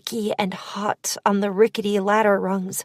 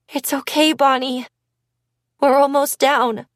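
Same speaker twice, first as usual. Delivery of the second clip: higher, shaky reassurance; 4 semitones higher than usual. Acted. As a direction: reassure her while your voice shakes. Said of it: "I said in a shaky voice".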